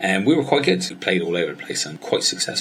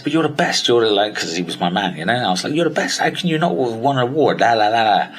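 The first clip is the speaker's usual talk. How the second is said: high, fast, eager fan; excited fan talking up his mentor; gushing praise; 4 semitones higher, 3 dB louder, faster than usual. Retold or imitated. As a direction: pile on the praise for your hero.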